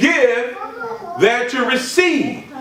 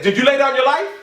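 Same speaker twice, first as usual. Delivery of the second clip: fiery preaching; 3 semitones higher than usual. Acted. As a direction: preach it out to the whole church. Preaching at full force.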